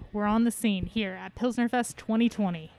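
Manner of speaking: muffled behind a face mask; talking through a mask, half yelling. Real, not acted. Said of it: "I clearly have a mask over my face because it's incredibly muffled".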